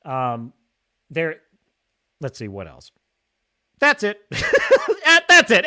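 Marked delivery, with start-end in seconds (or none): 3.8-5.6 laughing it off, voice lifted high; amused laugh while talking. Real, not acted. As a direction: chuckle through the words. Laughing at the bad movie.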